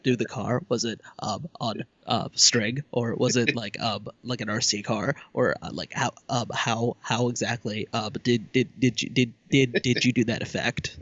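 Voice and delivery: stammering fan question, lots of ums; halting, over-careful nitpicky asker; nitpicker voice. Shown as a demonstration. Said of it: "that's my new nitpicker voice".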